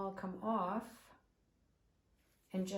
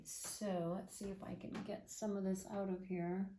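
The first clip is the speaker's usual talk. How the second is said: holding breath. Real, not acted. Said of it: "Sorry, I'm holding my breath".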